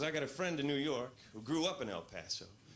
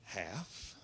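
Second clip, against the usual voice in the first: puzzled inner question; 6 semitones lower, 7 dB quieter than usual. Retold or imitated. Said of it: "I start thinking".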